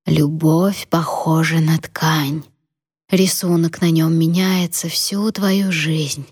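put-on slow, hushed old grandmother; a dying woman's last lesson; frail old woman. Dying grandmother explains love.

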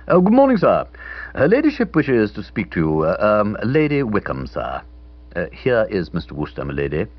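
a butler putting his lady on the line; butler on the phone. Acted. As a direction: announce her ladyship like a stiff butler. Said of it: "Some species of butler appeared to be at the other end".

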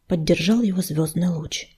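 ordinary delivery

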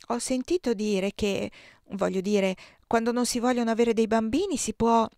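hesitant. Acted. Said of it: "dissi esitante".

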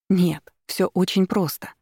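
wife cutting her husband short; curt retort. Acted. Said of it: "отрезала я".

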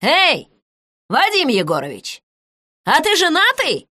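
calling out. Acted. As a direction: shout across the yard to stop him. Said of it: "крикнула".

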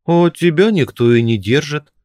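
mild jeering yell; shout. A narrator's reading. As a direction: shout after his back. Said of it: "крикнули ему в спину".

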